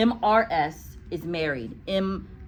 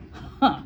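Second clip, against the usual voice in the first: snort; 3 dB louder than usual. Acted. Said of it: "she snorted".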